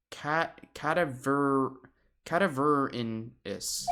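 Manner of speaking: slow, halting Cadaverinis, syllable by syllable; sounding out a name. Real, not acted. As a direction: stumble through Cadaverinis slowly. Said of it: "Ca-, Cadaveri".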